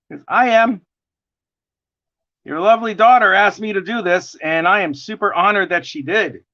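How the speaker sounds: bright, eager hello to a fan; cheerful greeting. Real, not acted. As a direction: greet her warmly and excitedly. Greets a viewer on request.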